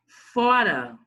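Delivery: FORA slow and loud on the first syllable; stress on FO. Shown as a demonstration. Teacher marking the tenth syllable, FORA with a long, loud FO. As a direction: stretch and punch FO in FORA. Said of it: "o décimo".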